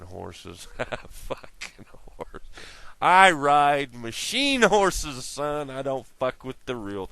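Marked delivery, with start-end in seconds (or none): 3.0-5.7 mock tough guy. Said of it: "Oh no, that's a joke".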